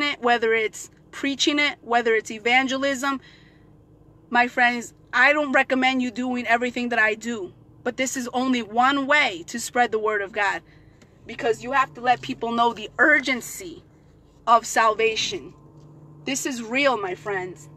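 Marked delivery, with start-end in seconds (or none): none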